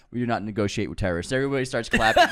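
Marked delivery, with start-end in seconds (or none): 0.1-1.3 a hint of an official statement, fast; mock stern announcement. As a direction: rattle off the official line. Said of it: "he goes".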